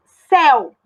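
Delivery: "céu" said alone and firmly as one unbroken syllable; deliberate, isolated "céu"; one syllable demo. Shown as a demonstration. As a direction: keep the vowels of "céu" together. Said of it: "por exemplo, eu falo".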